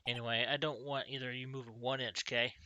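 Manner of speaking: put-on a touch of Southern-accented police detective; lightly voiced Southern accent. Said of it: "I gave him a southern accent".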